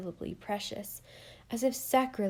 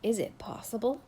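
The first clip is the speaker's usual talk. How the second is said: wondering. Acted. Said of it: "he said, wonderingly".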